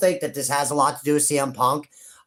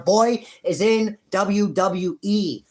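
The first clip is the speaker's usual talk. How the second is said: higher, slow, savoring each word; triumphant; 6 semitones higher, 3 dB louder, much slower than usual. Real, not acted. Fan gloating at the doubters, slow and triumphant. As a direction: drag it out like a victory lap.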